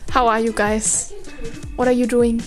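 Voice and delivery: loud. Pretend. Sudden loud sign-off to viewers.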